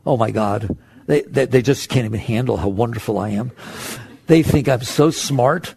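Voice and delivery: a hint of smug inner voice; mock self-praise. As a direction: lay the self-flattery on thick. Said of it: "I want you to make it say".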